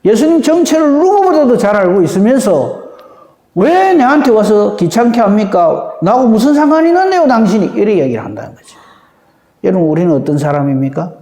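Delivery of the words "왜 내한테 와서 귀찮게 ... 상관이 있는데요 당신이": annoyed, dismissive demon talking back; rising scorn, push him away; irritated sneer. Acted. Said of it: "비아냥거린다". (귀찮다는 듯 비아냥거리며)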